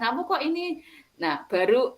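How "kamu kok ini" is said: higher-pitched, gently questioning; imitated gentle coaxing. Teacher showing how to ask the upset pupil, gentle coaxing. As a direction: coax a child in a light, high voice. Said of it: "di-, dialusi, dirangkul, terus ditanyakan".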